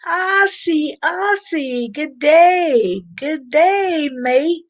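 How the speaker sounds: high, singsong mock-Aussie hello; excited, lilting Australian-style call-out; playful Australian greeting. Greets Australian viewer with Aussie phrases.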